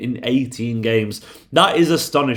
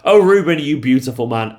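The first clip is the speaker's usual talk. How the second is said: excited; 3 dB louder than usual. Real, not acted. Adoring cry to favourite player.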